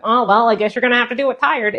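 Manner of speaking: dismissive, sarcastic brush-off; a mock snarky parent shrugging it off. Shown as a demonstration. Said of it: "saying it in a snarky way".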